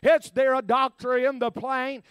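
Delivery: loud retold holler on the intercom; half-real intercom holler; hollering over intercom. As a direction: call it out like a panicked steward. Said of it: "he hollered and said".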